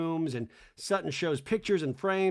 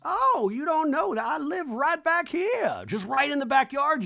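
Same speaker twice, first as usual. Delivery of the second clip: put-on old lady voice; 10 semitones higher, 4 dB louder than usual. Reba telling the guests where she lives, chirpy old lady. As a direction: chirp it out like a proud grandmother. Reba's voice imitated.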